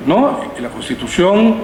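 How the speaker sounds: usual speaking voice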